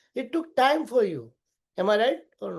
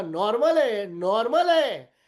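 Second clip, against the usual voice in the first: voice rising in protest; faster than usual. Retold or imitated. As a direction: insist "normal है" with the voice climbing. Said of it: "तीन बार ऊपर आवाज चला गया".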